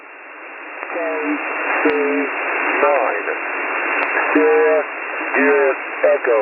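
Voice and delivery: garbled, fuzzy radio transmission; off-frequency, letters fuzzed up; mistuned ham radio. Real, not acted. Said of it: "I didn't get any of that".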